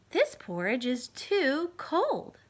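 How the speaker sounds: put-on slow, drawn-out little-girl complaint; Goldilocks. Goldilocks rejecting the cold porridge, slow and drawn out. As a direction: stretch each word like a picky girl.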